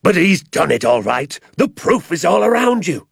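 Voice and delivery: irate landowner shouting at the sergeant, high furious yell; angry shout. A narrator's reading. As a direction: spew it out like hot lava. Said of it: "shouted Mister Hazel".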